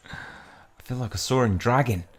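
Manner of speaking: first try at Aussie voice; bad Australian accent. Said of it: "Oh, that was so bad, Australian accent".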